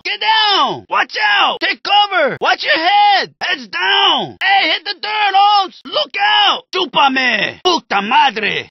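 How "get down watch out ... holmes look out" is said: shouted warnings. Acted.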